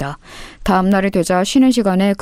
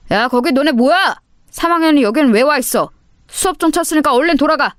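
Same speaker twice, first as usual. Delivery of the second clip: higher-pitched teacher's reprimand; scolding teacher; 6 semitones higher than usual. Acted. Homeroom teacher chasing off seniors, stern scolding. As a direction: order troublemakers back to class.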